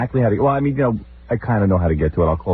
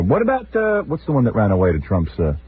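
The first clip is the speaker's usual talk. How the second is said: nagging mother-in-law; 4 semitones higher than usual. Retold or imitated. Husband imitates mother-in-law interrupting tennis talk, nagging repetition. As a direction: mimic the mother-in-law nagging over and over for attention. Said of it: "That's how she just says it".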